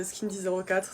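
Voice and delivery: "Skin dix zéro quatre" with French digits; French pronunciation. Real, not acted. Vlogger sticking to French for the brand, French pronunciation. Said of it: "je suis en français".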